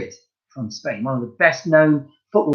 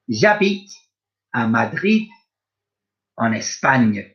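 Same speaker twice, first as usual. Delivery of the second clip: a lightly voiced Spanish speaker saying bonjour, slow and clear; Spanish speaker role; 3 semitones lower, slower than usual. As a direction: play someone from Madrid, lightly. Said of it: "Let's listen to that one again".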